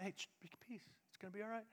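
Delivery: very soft, gentle divine voice; barely above a breath, reassuring; hushed voice of the Lord; still small voice. Acted.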